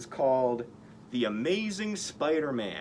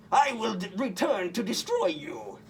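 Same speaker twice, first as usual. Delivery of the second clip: much higher, loud villain voice; villain threat; 7 semitones higher, 3 dB louder than usual. A narrator's reading. Goblin fleeing on glider, loud villain vow. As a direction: shout the vow back while escaping.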